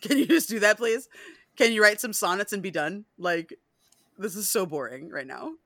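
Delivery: impatient Lestat. Retold or imitated. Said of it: "Lestat's like".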